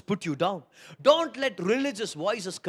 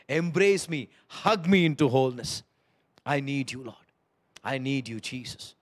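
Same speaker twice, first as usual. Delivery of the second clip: quiet prayer. Pretend. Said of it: "just say".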